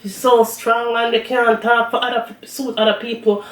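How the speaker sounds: whiny-viewer imitation, lightly done; mock complaining. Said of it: "a lot of people come complaining".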